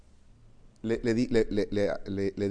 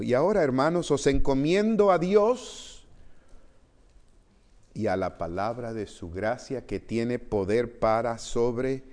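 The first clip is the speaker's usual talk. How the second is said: raised, earnest scripture reading to the church. Acted. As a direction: proclaim the verses to the congregation. Pastor reads scripture aloud. (lectura solemne de la Escritura)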